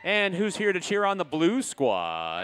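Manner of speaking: loud, slow crowd hype; calling to the crowd. Real, not acted. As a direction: call out to the whole arena. Hyping the crowd at halftime.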